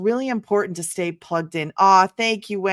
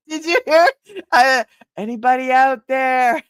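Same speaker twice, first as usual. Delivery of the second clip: higher and louder call to the other room; 5 semitones higher, 7 dB louder than usual. Real, not acted. Host calls off-camera again, louder and higher. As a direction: shout through the house.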